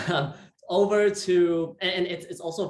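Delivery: laughing as he talks, voice lifted. Real, not acted. Host laughing about strict school grades. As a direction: chuckle through the words.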